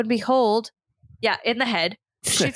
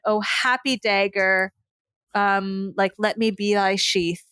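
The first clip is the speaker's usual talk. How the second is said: slow dramatic recital; 2 semitones lower, slower than usual. Acted. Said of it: "that famous line".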